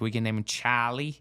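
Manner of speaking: imitating a Boston wife; Boston accent with the r dropped in Charlie; mock Bostonian wife. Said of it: "your wife is from Boston".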